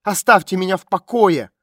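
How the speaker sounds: shout. A narrator's reading. Frightened girl yells at the stranger to leave her alone. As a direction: yell to drive her off. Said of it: "закричала девушка".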